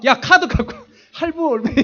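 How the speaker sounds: loud, high, laughing through the words; mock-rash order with a laugh; laughing outburst. 홧김에 카드 긁는 장면. (웃음 섞인 크고 높은 외침)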